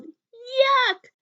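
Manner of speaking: loud, high yelling of disgust. A narrator's reading. Father spitting out the clay cookie, loud disgusted yell. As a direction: howl it out like the taste is awful. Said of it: "And he yelled".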